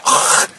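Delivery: voiceless throat-clearing hack; mock hairball cough. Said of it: "about to cough up hairball".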